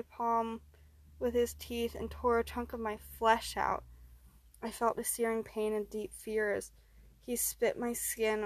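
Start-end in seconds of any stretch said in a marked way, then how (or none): none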